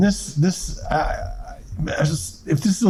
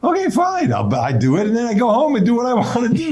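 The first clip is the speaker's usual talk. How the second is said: imitating shrug; 10 semitones higher than usual. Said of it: "why they didn't just say".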